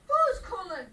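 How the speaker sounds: loud call from off. Acted. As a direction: shout back across the house. Answering a call from inside.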